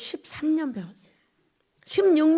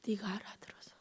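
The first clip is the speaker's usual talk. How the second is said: low, hushed whisper heavy with grief; imitating a heartbroken weeping voice; tearful, choked-up voice; 7 semitones lower, 19 dB quieter than usual. Preacher re-enacts God's voice to the congregation, tearful choked whisper. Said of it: "눈물을 흘리고 있는 너무나 그 매일 가슴이 메인 이런 목소리였어요".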